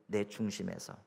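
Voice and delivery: normal talking voice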